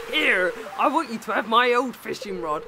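lightly voiced old sailor; a hint of pirate. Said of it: "pirate voice for Mister Willy now".

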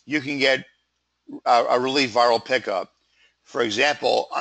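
hoarse, croaky throat; frog voice. Real, not acted. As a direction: voice catching in the throat. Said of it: "my frog voice".

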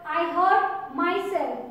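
"I hurt myself." said slowly with weight on "hurt"; example sentence, slowly. Shown as a demonstration. Teacher reading a model sentence to the class, slow and deliberate. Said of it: "you can see here".

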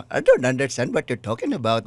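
put-on English with Chinese accent. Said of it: "yung accent na".

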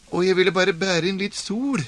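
high, lightly put-on old woman; a puzzled old woman explaining herself; old woman's voice. Old woman tells the stranger about the sun, puzzled and high.

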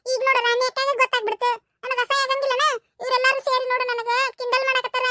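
put-on a sulky girl blaming her mother; a hint of a pouting little girl; whiny little girl. Child Chinni whines at mother.

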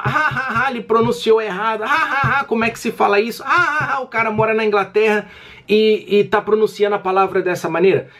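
high, sing-song mock laughter between jeers; mocking commenter. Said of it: "e a pessoa lá".

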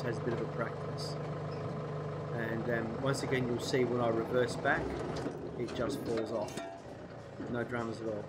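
blocked nose, nasal from a cold. Real, not acted. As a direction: talk through a stuffy nose. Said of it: "hopefully my nasally voice will have".

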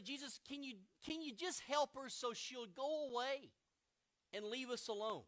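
annoyed friends begging for relief; hammed-up fed-up plea; whiny disciples.

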